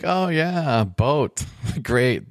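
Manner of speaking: a sarcastic "oh yeah, boat, great" with a laugh; mock fake excitement. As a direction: pretend to be thrilled, not meaning it. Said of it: "She's like".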